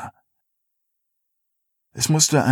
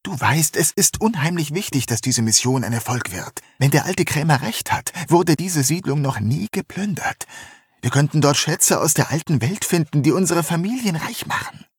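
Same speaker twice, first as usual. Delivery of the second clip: höher, bittend und eindringlich; überzeugen wollen, sanft; eindringliche junge Frau; 4 semitones higher than usual. Acted. Bonnie redet eindringlich zu. (eindringliche junge Frau)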